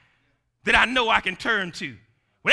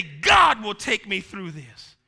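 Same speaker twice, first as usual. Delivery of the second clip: declared slowly; 3 dB louder, slower than usual. Shown as a demonstration. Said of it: "you gotta talk to yourself and say".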